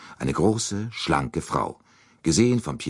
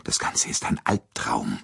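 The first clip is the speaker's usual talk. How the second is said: ordinary delivery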